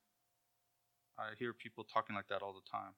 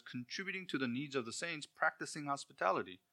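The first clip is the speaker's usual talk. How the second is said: scripture reading; 4 semitones higher than usual. Shown as a demonstration. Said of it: "You see what it says?".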